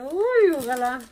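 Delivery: a high, loud hopeful cry; hopeful excitement. Real, not acted. Hoping the store takes the ring back, eager. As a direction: pitch up in sudden hope.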